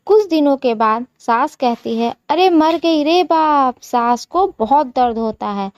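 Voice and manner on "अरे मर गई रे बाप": mother-in-law wailing in pain; cry of pain. Acted. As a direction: cry out, hurting badly. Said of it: "वो चीखने लगती है".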